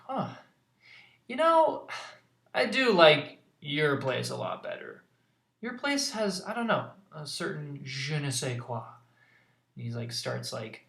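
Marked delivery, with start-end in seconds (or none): 0.1-8.8 put-on a cheeky girl admiring the place; Nimona teasing. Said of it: "she's like".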